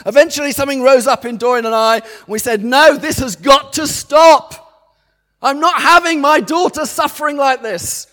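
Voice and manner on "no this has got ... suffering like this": forceful shout. Retold or imitated. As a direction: shout it down with authority. Parents rising up against illness.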